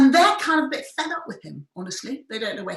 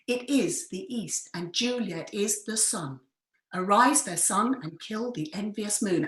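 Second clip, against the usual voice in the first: slow, soft iambic reading; verse recitation; 2 semitones lower, 5 dB quieter than usual. Shown as a demonstration. Host recites Juliet's balcony verse, slow and lilting. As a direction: let each second syllable land, like "the EAST" and "the SUN". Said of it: "So if you listen to this".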